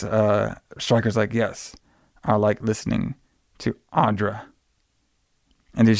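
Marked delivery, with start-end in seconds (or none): 1.3-4.4 soft, unhurried, acted answer; quiet retold reply. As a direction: drop the volume for the director's cool comeback. Acted director's calm, taunting answer.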